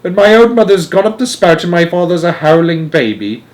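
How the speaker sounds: high, loud protest; distressed cry. A narrator's reading. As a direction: protest loudly, beside yourself. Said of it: "cried poor Missus Bucket".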